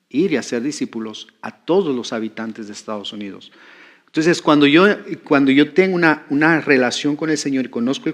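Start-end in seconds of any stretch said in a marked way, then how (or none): 0.1-3.5 lower, softer restatement; thoughtful restatement. Shown as a demonstration. Preacher pointing to the heart of the vision, low and thoughtful. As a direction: say it low and soft, letting the sense land. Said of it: "no entendemos a veces la esencia".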